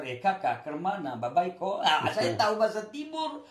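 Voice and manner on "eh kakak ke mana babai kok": a light eastern Indonesian lilt, casual greeting; friendly eastern Indonesian accent asking where you're headed. Shown as a demonstration. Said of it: "Orang bahasa Timur".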